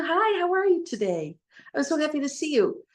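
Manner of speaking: a cheerful, overjoyed hi to a friend you bumped into; excited greeting. Shown as a demonstration. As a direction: greet them like you're thrilled to see them. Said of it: "like, excited to see them".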